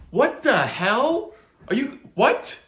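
shocked, high, loud outrage; stunned disbelief after a slap; just got slapped. Acted.

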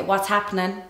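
understated Cork accent. Shown as a demonstration. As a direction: demonstrate the everyday Cork accent. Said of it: "another one for you that I always say".

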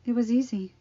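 out of breath while dying; breathless. Acted. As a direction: gasp between the phrases.

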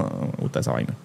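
a hushed, voiceless complaint; whispered aside. Real, not acted. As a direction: whisper it under your breath. Aparte tras rechazar fantasmas. (susurrado entre dientes)

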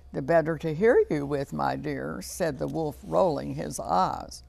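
measured, lively storybook narration; story reading to children. A narrator's reading. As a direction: tell a fairy tale to young children. Reads fairy tale to children.

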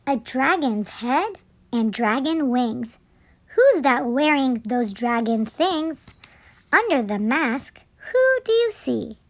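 measured picture-book narration; children's story reading. A narrator's reading. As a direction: read it aloud to little children.

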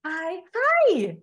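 mock held-breath high pitch; top-of-breath greeting. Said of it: "all the way up here".

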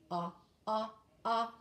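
"ah, ah, ah" as short open ah sounds, evenly spaced; repeated ah sound. Shown as a demonstration. Teacher leads the class in the sound, chanted ah. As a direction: chant "ah, ah, ah" crisply. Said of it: "Can you do it with me?".

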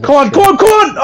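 high, rising cries of urging; urgent urging. Real, not acted. Urging on at a hard jump.

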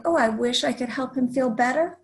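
a touch of discouraged sighing; sighed complaint. Acted. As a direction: read it as a mildly disheartened child's lament. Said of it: "Izzy sighed".

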